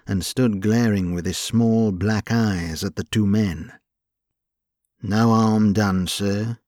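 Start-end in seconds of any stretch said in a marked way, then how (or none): 5.0-6.6 conciliatory. Acted. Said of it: "said James in a conciliatory way".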